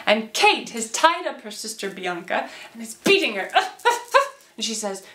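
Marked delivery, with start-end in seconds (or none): 3.5-4.3 high, short bursts of voice; acted scuffle noises. Storyteller playing Kate beating Bianca, high scuffle noises. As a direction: let out quick high yelps.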